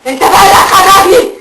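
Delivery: defiant demon. Acted. Demon mocks exorcist.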